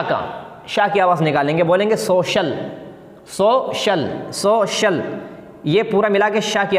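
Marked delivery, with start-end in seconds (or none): 2.0-5.0 syllable by syllable. Shown as a demonstration. Teacher demonstrates word in syllables.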